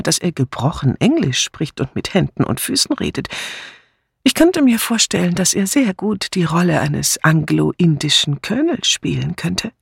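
a hint of an old lady telling a sad case; Miss Marple, nachdenklich erzählend. (leicht angedeutete alte Tante, nachdenklich erzählend)

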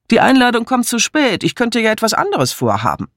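put-on high, doll-like young wife. Wife pouting at the colonel, high voice.

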